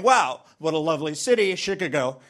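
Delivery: Chicago said as "Shick-a-go" with a short i; mock a tourist mangling Chicago; lightly voiced tourist saying "Chicago" wrongly; mispronounced Chicago. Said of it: "going to Chicago and saying".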